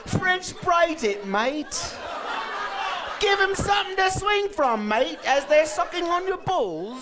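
mock British bloke, high and slow on the braid line; British accent. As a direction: ham up a cheeky British accent, stretching French braid. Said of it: "I heard a British accent say".

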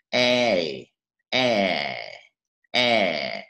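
drawn-out "E" with wide lips, falling; first long E. Shown as a demonstration. Teacher reviews the first long sound, drawn-out wide E. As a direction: hold "E" long and let it sink. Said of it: "Ví dụ âm dài số thứ, thứ nhất".

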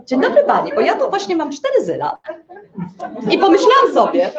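lekko zagrany słodki klient ze śmiechem; targujący się klient. Retold or imitated. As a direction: przymilaj się sprzedawczyni, chichocząc. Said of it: "Natomiast Jowisze co robią?". (klient Jowisz zagaduje sprzedawczynię, przymilnie ze śmiechem)

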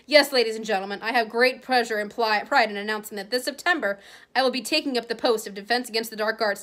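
a lightly voiced grand showman; pompous Lockhart. Vain author makes his big announcement to the crowd, lightly pompous. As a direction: announce it as if to adoring fans.

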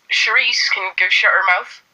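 mock indignant Bristolian; Bristol accent. Answering gossip about Shereese, mock indignant Bristol accent. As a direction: snipe back in put-on Bristol. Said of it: "I'm from Bristol".

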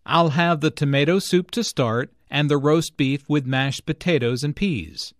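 "roast beef" and the other foods stressed, the rest light. Shown as a demonstration. Customer ordering a meal, stressing each food. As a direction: hit "tomato soup", "roast beef", "mashed potatoes" and "peas". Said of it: "are stressed because the food".

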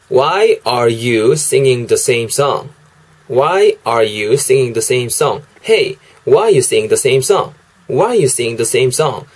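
slow, careful "Why are you singing the same song?"; teacher modelling "Why are you singing the same song?"; slow English demo. Shown as a demonstration. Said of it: "이 정도로 발음하시면 되겠습니다".

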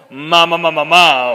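ma repetido fuerte y agudo; ejercicio de vocalización. Shown as a demonstration. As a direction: suelta las sílabas ma con fuerza. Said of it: "ejercicios como que nos gustan". (sílabas ma proyectadas)

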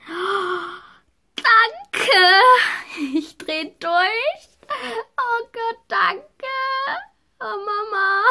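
high, teary and breaking; tearful joy. Real, not acted. Thanks parents while crying. (weint gerührt und bedankt sich bei den Eltern)

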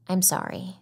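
soft, sincere sorry; quietly mean it; sincere apology. Acted. Apologizing to Becca for the late call, sincere and soft. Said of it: "I say with sincerity".

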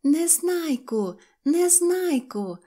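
high, drawn-out name call; crying out. A narrator's reading. Girl suddenly calling after departing Neznaiko, crying out. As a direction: shout after someone far away, stretching each word. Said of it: "закричала раптом Синьочка".

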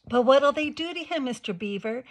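Lucy gasps the question in alarm; gasped. A narrator's reading. Girl gasping to Mister Beaver about the faun. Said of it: "gasped Lucy".

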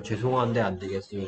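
soft apologetic Korean refusal; polite refusal. Shown as a demonstration. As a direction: say it like a sorry shop clerk. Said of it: "느낌". (미안한 듯 부드럽게)

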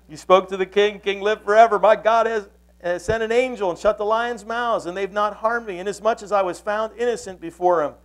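acted Daniel declaring his innocence; calling back. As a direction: call up earnestly from the den. Daniel calls back from den.

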